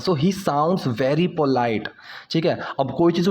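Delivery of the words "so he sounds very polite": slow, deliberate example sentence; slow teaching demo. Shown as a demonstration. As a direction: lay each word out slowly. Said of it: "अगर मैं किसी को बोलूँ कि". (धीरे-धीरे समझाते हुए)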